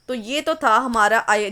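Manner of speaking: normal talking voice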